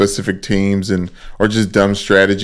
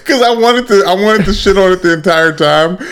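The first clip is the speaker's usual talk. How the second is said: pitched way up, defending the bit; high excited protest; 6 semitones higher than usual. Real, not acted.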